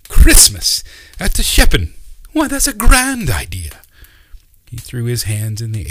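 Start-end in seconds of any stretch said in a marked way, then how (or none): 0.1-3.8 much higher, much louder thrilled exclamation; delighted uncle. Acted. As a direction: burst out with joy at the idea.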